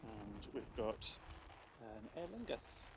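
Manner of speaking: muffled, mic covered by hand. Real, not acted. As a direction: speak through a covered microphone. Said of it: "the sound's a bit muffled 'cause I'm covering the".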